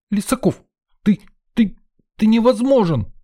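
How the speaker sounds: very high, sputtering outrage; girl sputtering at the prankster; outraged. Acted. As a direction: stammer with indignation.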